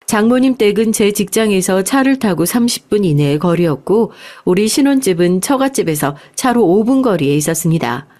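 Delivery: usual speaking voice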